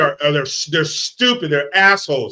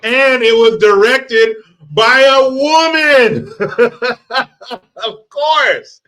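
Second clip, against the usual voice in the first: laughing; 6 semitones higher, 5 dB louder, slower than usual. Real, not acted.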